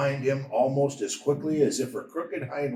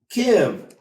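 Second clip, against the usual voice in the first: calling into the night for his lost lamb; boy calling his lost sheep's name; 7 semitones higher, 6 dB louder than usual. A narrator's reading. Boy searching the hills calls out for Kibsah. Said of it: "Benjamin called once more".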